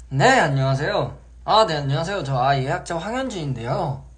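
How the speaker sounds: 또렷하고 힘 있는 통화 인사; 자신 있게 또박또박 인사; practiced phone voice. Shown as a demonstration. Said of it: "이게 요 때 먹혀요". (연습한 또렷한 전화 목소리)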